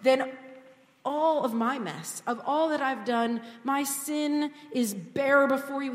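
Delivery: David turning to praise God; hopeful praise. Retold or imitated. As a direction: lift your eyes in praise. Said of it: "he looks up and he says".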